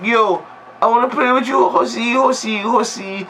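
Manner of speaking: high, sing-song nagging at the horse; pestering childish voice. Retold or imitated. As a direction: keep pestering like a bratty child. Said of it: "she's like".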